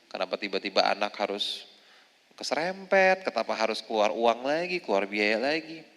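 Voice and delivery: soft, quiet grumble to Allah; a hint of a weary lament; mild complaint to God. Mother complaining to God over hospital costs, quiet grumble. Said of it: "mengeluh sama Allah".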